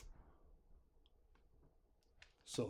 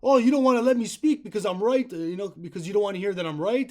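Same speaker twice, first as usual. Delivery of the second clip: retold yell; 2 semitones higher, 4 dB louder than usual. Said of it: "I'm yelling at the top of my lungs".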